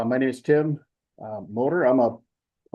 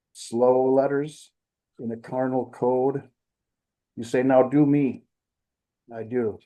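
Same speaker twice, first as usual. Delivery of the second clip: measured verse with pauses between lines; deliberate phrasing, line by line; poetry reading. Acted. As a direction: read your own poem to a small audience. Reads third poem aloud.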